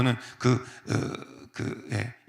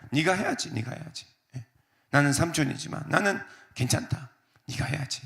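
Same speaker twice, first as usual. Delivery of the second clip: softer, kindly urging; gentle yielding; 2 semitones higher, 5 dB quieter than usual. Acted. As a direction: generously coax the nephew to choose. Abraham yielding gently to nephew. (조카에게 양보하며 다정하게 권하듯)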